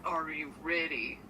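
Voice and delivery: low creepy half-whisper; sleazy low whisper. Pretend. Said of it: "I'm giving a creepster vibe".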